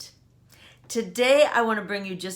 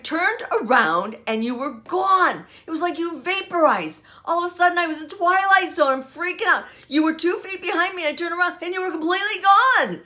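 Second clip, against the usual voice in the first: imitating a hysterical daughter, higher and louder; 10 semitones higher, 5 dB louder than usual. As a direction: retell her freaking out in a rushed, higher voice. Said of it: "she was hysterical".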